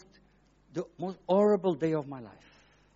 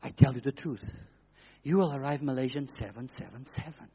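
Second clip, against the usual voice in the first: smooth voice; 3 semitones lower than usual. Retold or imitated. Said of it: "It's a smooth voice that says".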